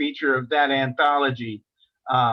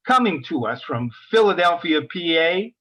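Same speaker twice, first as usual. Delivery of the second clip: announcing the reader. Acted. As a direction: bring the next reader up to the mic. Host introduces the reader.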